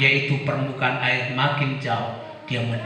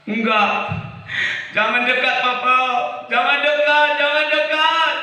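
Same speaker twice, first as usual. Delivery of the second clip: put-on child; 13 semitones higher, 3 dB louder than usual. Child pushes father away.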